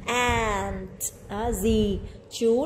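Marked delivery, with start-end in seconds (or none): 0.0-1.0 Aunt with a long, drawn a; teacher showing the long a in Aunt; long a sound. Shown as a demonstration. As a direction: stretch the a in Aunt. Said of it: "vần A dài ha".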